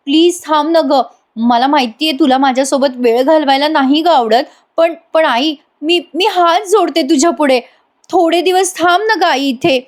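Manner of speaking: high, begging melodrama with joined hands; overdone pleading daughter. Acted. Priya begging her mother to stay, hammed-up pleading. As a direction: ham up a fake tearful plea to stay. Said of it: "काय drama करते बघा प्रिया".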